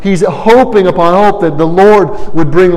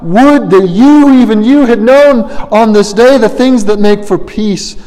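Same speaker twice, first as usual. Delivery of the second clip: crying out; 6 semitones higher than usual. Acted. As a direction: call out over the city in grief. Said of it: "he cries out".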